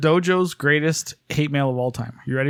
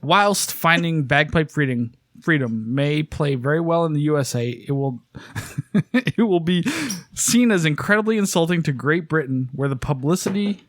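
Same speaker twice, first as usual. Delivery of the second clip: fake British; slower than usual. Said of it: "it's gonna be fake British".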